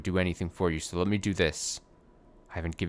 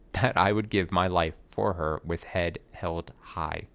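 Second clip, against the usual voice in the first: slow, with a laugh; laughing retake; slower than usual. Shown as a demonstration. Actor laughing as he redoes the flubbed line.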